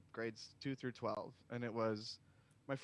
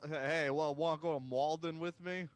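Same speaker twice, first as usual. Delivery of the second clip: put-on Boston accent; 3 semitones higher, 5 dB louder than usual. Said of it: "Let's hear your, here, let's do a".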